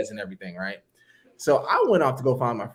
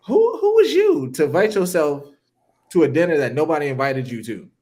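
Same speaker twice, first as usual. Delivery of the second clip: raised, louder indignant question; indignant retelling; 3 semitones higher, 5 dB louder than usual. Retold or imitated. To the woman who invited herself, indignant. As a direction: demand it like you're offended.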